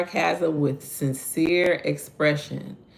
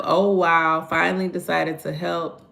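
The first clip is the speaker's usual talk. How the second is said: sarcastic. Shown as a demonstration. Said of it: "instead of".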